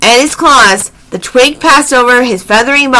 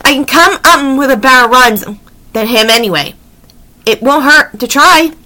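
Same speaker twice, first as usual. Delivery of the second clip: croaky raven voice; 3 semitones higher than usual. Acted. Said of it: "croaked Annie".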